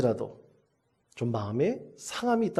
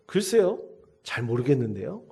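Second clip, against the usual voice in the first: put-on cheeky child. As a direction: toss it off like a bratty little boy. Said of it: "아들이 또 짓궂게 대답을 했어요".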